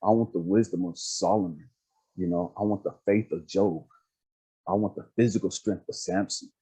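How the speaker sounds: low, measured plea to God; retold prayer, pitched low; earnest prayer. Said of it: "I was talking to God one day".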